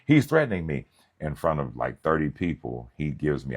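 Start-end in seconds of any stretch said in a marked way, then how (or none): 0.0-0.8 mock whiny old deacon. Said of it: "He said".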